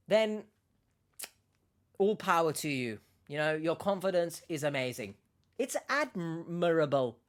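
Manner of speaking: sarcastic mock praise. Real, not acted. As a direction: praise them with open sarcasm. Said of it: "Sense the sarcasm".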